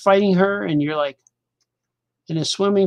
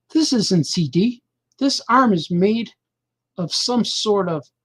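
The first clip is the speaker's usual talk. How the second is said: slow, higher, wondering delivery; slow realisation; 3 semitones higher, 3 dB louder, slower than usual. Shown as a demonstration. Hero examining the robot arm, slow and wondering. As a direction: spell it out slowly as it dawns on you. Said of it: "gonna read this to you now".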